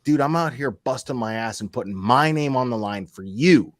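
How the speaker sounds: fed up, mildly angry retelling; retold exasperation. Host retelling how he scolded Michael, mad but contained. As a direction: chew him out with some restraint. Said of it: "that made me mad".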